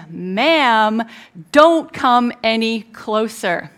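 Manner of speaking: loud, slow warning; slow, emphatic command, each word weighted; retold firm order. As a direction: voice a guard ordering someone back. Security guard orders frantic mother back.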